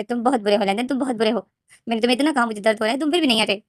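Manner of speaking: mild sob in the voice, blaming him; crying. Acted. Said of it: "रोते रोते बोलते".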